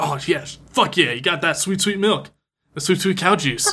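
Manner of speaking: put-on thrilled, worked-up, whooping excited outburst. Recapping a scene where the robot lady brings home milk, imitating an excited professor. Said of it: "the professor's all excited".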